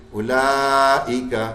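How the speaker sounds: اولائکا slow, with the long madd held. Shown as a demonstration. Teacher showing the long madd in اولائکا. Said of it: "بڑی مد بن گئی".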